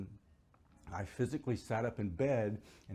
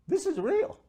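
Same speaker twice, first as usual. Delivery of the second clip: loud, high exclamation of amazement; awed realisation; 8 dB louder than usual. Retold or imitated. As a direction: cry it out, overwhelmed by the discovery. Retelling his shout of realisation.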